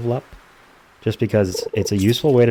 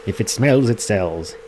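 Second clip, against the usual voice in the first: folksy saying; slower than usual. Acted. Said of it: "what me old Peppy used to say".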